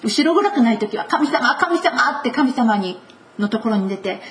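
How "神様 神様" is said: eager calling out. Pretend. Eager prayer voiced.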